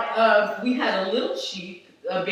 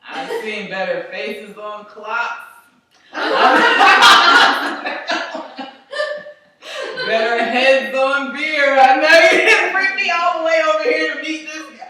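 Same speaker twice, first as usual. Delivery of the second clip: mother's put-down; 6 semitones higher, 7 dB louder than usual. Retold or imitated. Mother judging daughter's date, lightly voiced scorn. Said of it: "She was just like".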